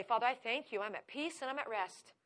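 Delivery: soft, restful thanks; peaceful prayer. Retold or imitated. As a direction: settle into calm trust. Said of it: "I say".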